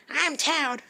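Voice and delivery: very high, loud cartoon squeal; Toad voice. Shown as a demonstration. Vlogger demoing a game voice for viewers, high loud squeal. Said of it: "and then Toad".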